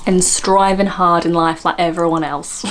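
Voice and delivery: mock Essex imitation. Host parroting the Essex clip, mock Essex accent. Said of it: "do an Essex accent".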